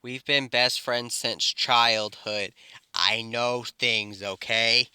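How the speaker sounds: slow, measured and earnest; slow right down and mean it; serious. Retold or imitated. Deku levelling with his childhood best friend, serious. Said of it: "gets a serious face and says".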